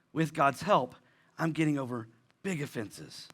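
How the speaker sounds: quiet, tender restatement of hope; gentle. Shown as a demonstration. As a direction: say it again softly, as comfort. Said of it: "I wanna be very gentle".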